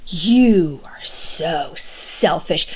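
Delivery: very slow, hushed, pointed whisper; quietly telling a friend the hard truth; whispered accusation. Retold or imitated. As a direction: hiss out each word slowly. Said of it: "When I said that to the person".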